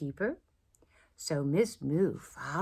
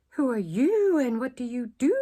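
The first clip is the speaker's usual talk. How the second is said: not very nicely; 6 semitones higher, 8 dB louder than usual. A narrator's reading. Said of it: "but not very nicely".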